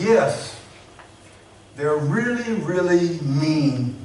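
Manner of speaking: a hint of a small child, slow and earnest on really; lightly voiced little boy. Pastor retelling a young boy's answer to the interviewer, a hint of a child's voice.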